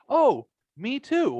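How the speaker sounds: high, drawn-out eager "oh"; retold eagerness. Retold girl's eager reply.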